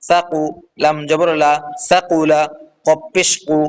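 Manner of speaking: measured, evenly chanted spelling, then the joined word; syllable-joining drill. Shown as a demonstration. Teacher showing learners how syllables join, measured recitation drill.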